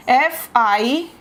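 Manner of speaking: slow letter-by-letter spelling; dictating letters slowly; spelled out. Shown as a demonstration. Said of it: "spelling out fiancee".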